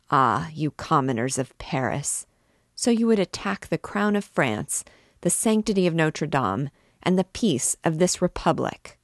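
controlled, measured anger in steady orders; cold wrath. Acted. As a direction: hold the rage tight and cold. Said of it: "with cold and concentrated wrath".

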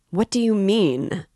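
sudden shout. A narrator's reading. Razumihin realizing the trap, shouting. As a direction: burst in as it dawns on you. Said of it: "Razumihin shouted suddenly".

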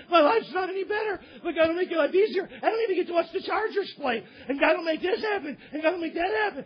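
high, agitated back-and-forth; acted complaint. Disappointed believer argues with church visitors, high acted complaint. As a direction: whine and counter with hammed-up insistence.

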